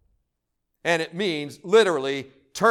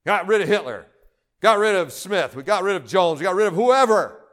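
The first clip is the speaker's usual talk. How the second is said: mock gloating. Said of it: "clapping his hands and say".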